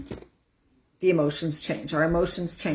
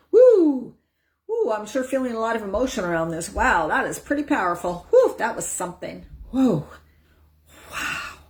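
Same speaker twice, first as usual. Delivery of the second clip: acknowledging emotion demo; 5 semitones higher than usual. Shown as a demonstration. Showing how to name and release emotion, high excited exclaims. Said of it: "demo of feeling emotion".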